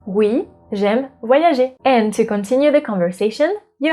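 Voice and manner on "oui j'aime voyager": slow, careful oui, j'aime voyager; unhurried model answer; slow demo. Shown as a demonstration. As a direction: spell it out slowly for learners. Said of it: "repeat what I've asked".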